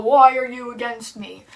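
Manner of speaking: booming voice. Acted. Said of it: "this big booming voice asks Saul".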